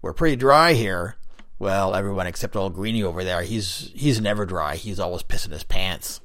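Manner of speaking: loud, rough wisecracking voice; raspy voice. Acted. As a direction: gossip in a coarse loud rasp. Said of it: "raspy voice".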